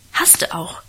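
breathy whisper from the next room. A narrator's reading. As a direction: whisper it under your breath, mocking. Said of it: "flüsterte ich im Nebenzimmer dazu".

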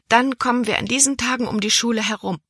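high, quick, pleased chatter. A narrator's reading. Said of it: "rief Libby erfreut".

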